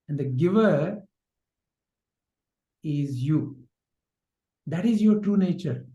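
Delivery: ordinary delivery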